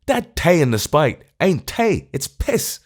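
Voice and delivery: high, rising Irish complaint; scornful Irish tramp. A narrator's reading. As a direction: spit out the grievance, Irish tramp. Tramp's self-pitying exclamation.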